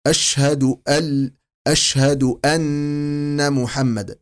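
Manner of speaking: أشهد with the ش hissed and spread slowly; spread shin. Shown as a demonstration. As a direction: let the shin of أشهد breathe out. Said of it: "وحرف تفشي".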